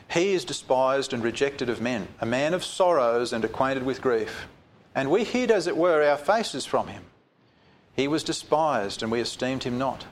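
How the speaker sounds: solemn reading from the pulpit; scripture reading. Acted. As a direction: read the prophecy out with gravity. Reads scripture aloud.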